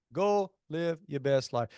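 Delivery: catchphrase drawn out word by word; slow down and space out each word; slow, deliberate repeat. Real, not acted. Catchphrase repeated slower and lower.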